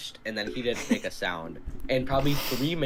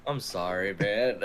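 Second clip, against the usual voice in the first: mildly weary mock apology; defeated, weary; 2 semitones lower, slower than usual. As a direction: imitate a worn-out, defeated apology. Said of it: "the most defeated, weary voice".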